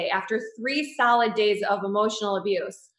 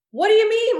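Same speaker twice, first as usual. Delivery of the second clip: much higher and louder, genuinely puzzled; baffled; 11 semitones higher, 6 dB louder than usual. Retold or imitated. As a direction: throw it back in disbelief. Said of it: "I'm like".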